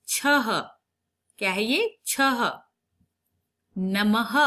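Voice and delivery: ordinary talk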